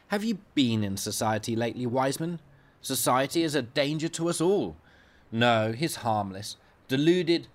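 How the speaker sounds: a hint of a haughty consultant brushing off a colleague; scornful consultant. Consultant dismisses the doctor.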